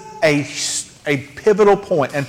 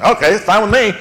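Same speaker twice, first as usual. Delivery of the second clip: gruff voice; faster than usual. Retold or imitated. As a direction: growl it out like a gruff grumbler. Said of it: "in quite that gruff voice".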